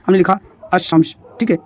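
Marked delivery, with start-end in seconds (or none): 0.7-1.1 अशम्स as "ash-shams", no "l"; silent lam. Shown as a demonstration. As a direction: drop the lam in अशम्स and double the "sh". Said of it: "यानी लाम का तलफ़ुज़ नहीं हुआ". (अशम्स में लाम चुप, श दोहरा)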